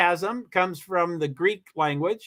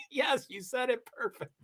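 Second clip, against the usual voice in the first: guessed inflection; 6 semitones higher, 9 dB quieter than usual. Acted. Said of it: "trying to guess on the voice inflection".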